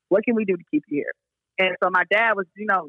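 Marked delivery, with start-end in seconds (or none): 0.1-1.1 brisk question in one unbroken run; quick repeat. Retold or imitated. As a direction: run the question through quickly without pausing.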